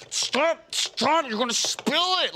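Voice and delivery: high, panicky mock yelps; mock scream. Pestering her as she holds the bowl, mock screaming. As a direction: yelp it high in pretend alarm. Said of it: "I'm screaming at her".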